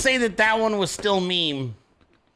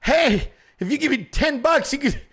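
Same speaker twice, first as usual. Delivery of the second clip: higher, eager mock sales pitch; pitchman plea; 5 semitones higher than usual. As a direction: hawk it like a lightly parodied fundraiser. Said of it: "never seen President Trump out there like".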